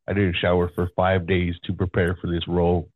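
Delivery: low, self-serious actor voice; lightly voiced method actor; Goldblum voice.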